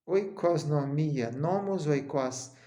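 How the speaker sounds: "Oikosnomia" said slowly syllable by syllable; teacher slowly pronouncing "Oikosnomia"; slow pronunciation. Shown as a demonstration. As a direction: spell out "nomos oikos" slowly, each part clear. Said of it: "Economia quer dizer lei da casa".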